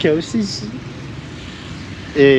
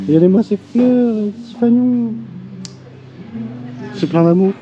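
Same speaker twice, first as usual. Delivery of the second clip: delighted gushing; 6 semitones higher, 4 dB louder than usual. Real, not acted. Gushing over the pretty street.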